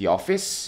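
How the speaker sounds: pitch rises upward on the word office. English lesson in Korean, practicing the sentence end: rising pitch on office. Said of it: "이렇게 올려서 발음해 주시면 됩니다".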